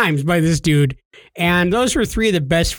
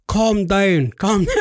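imitated Jamaican scammer; brief Jamaican caller impression; Jamaican accent; slower than usual. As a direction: soothe in a put-on Jamaican accent. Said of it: "He was from Jamaica".

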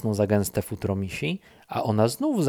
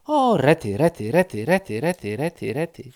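dzięcioł repeating; 4 semitones higher, 4 dB louder than usual. Acted. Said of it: "Zawsze to powtarzam".

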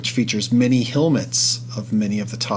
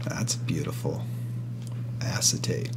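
whispering; 7 semitones lower, 9 dB quieter than usual. Real, not acted. Admiring card whisper.

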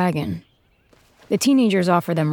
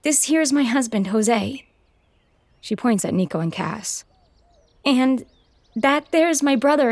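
put-on young frontier woman; 5 semitones higher than usual. Mabel covers for the fugitives.

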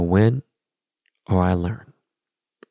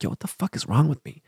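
muttered, much softer, rising on wrong; quietly asking himself what is wrong with him; self-reproach under breath; 3 semitones higher, 6 dB quieter than usual. Retold or imitated. To himself after littering, a soft disbelieving mutter.

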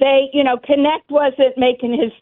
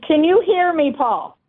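sudden loud outburst; 5 semitones higher than usual. Real, not acted. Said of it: "Sorry for shouting".

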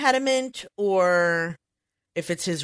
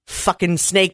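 Jack Nicholson impression; slower than usual. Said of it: "you can just hear him go".

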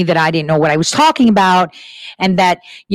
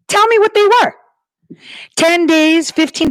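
much higher, insistent demand; demanding challenge; 10 semitones higher than usual. Real, not acted. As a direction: push them to answer, pitch way up. Demanding audience recall headlines.

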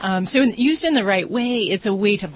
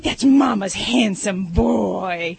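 put-on baby talk statement; much slower than usual. Shown as a demonstration. Vet showing a baby-talk statement, slow cooing. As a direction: praise the pet like a baby.

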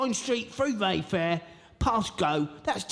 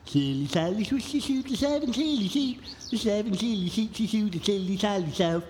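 spitty s sounds. Acted. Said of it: "Spit everywhere!".

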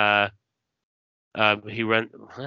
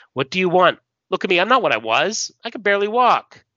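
high, loud, pleading self-defence; desperate acted protest; 8 semitones higher, 5 dB louder, faster than usual. Broken hero defends himself to Larissa, desperate protest. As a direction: plead helplessness, melodramatically.

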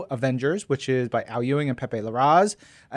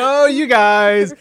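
slow, high, drawn-out groan of fondness; playfully fed-up sigh at friends; mock exasperated; 7 semitones higher, 8 dB louder, slower than usual.

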